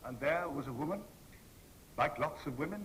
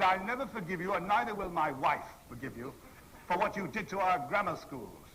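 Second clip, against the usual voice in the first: higher-pitched repeat of an acted accusation; emphatic reproach; 5 semitones higher than usual. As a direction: press the grievance home, pitch raised. Stranger repeats reproach when asked.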